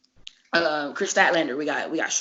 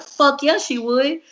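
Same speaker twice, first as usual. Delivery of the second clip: mock hyped agreement; 8 semitones higher, 6 dB louder, slower than usual. Boss voiced approving.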